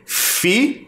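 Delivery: Filho stretched out syllable by syllable; sounded out. Shown as a demonstration. Teacher sounding out a word for pupils. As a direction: sound out Filho slowly for the class. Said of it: "Quando eu digo fi".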